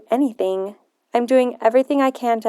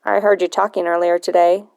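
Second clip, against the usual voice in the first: a lightly voiced gruff old man, a bit lower; lowered grandfather's voice, stern and probing; a touch of a suspicious old man; grumpy old man; 3 semitones lower than usual.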